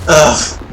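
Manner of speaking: short fed-up groan; exasperated groan. Real, not acted. Player waiting on a teammate's last shot, exasperated groan.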